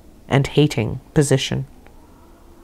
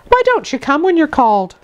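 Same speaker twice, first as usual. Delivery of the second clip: higher, mildly scolding nursemaid voice; a light scold to a stubborn child; cross nursemaid; 9 semitones higher than usual. A narrator's reading. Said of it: "she was somewhat cross".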